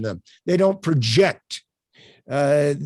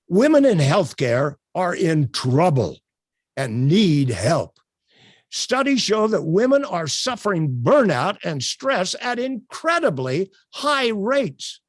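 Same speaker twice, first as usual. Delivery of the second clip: bringing the words alive; 3 semitones higher than usual. Shown as a demonstration. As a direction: lift the line with inflection and energy. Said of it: "make those words come alive".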